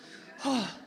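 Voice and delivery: audible breathy sigh, acting out arrival; re-enacted sigh of relief. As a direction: let out a short sigh at the humid air. Relishing humidity after cold trip.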